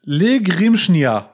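"Le Grimschnia" said very slowly as Einschmiergel reversed; backwards speech. Shown as a demonstration. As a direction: stretch out "Le Grimschnia" syllable by syllable. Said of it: "rückwärts sprechen".

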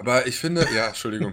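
talking while chewing; mouth full. Real, not acted. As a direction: speak through a mouthful of food. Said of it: "ich esse ja nebenbei".

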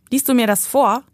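a hint of a little girl begging for a story; child asking. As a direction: ask sweetly like a small girl. Little girl asks to be read to.

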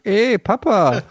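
put-on small child calling out in the dark; a little boy whispering Papa. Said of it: "der Kleine hat dann auch noch gesagt".

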